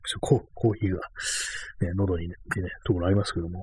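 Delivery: talking after choking on coffee; choking on a drink. Real, not acted. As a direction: speak through a throat still catching. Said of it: "コーヒーが喉に入ってむせた".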